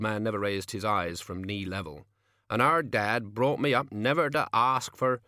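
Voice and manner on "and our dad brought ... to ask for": lightly voiced countryman, a bit louder; a touch of wounded pride; humble old peasant. A narrator's reading. Old man protesting the charity, humble but proud.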